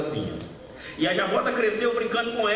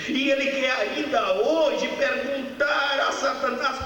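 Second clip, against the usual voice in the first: mais aguda e lenta, proclamando; pregação fervorosa; 8 semitones higher than usual. Acted. Pregação em alta voz. (pregação em voz alta)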